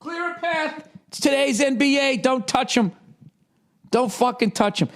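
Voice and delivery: high, mocking ref calling out; mock referee. Mocking refs who shield star players, high and whiny. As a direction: sneer like an overprotective ref.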